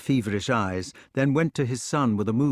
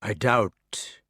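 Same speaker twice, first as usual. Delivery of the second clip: slow doubtful. Acted. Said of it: "He spoke slowly with his eyes on the floor".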